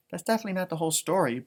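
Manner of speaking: fast unvoiced aside; whisper. Real, not acted. Reader confides to the audience, fast whisper. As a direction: breathe it as a quick secret. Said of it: "whispered aside".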